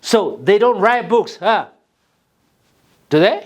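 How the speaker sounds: slow statement, then "Do they?" rising; slow tag question. Shown as a demonstration. Teacher models tag question slowly for class. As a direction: draw it out as a model. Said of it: "Yeah, that's it".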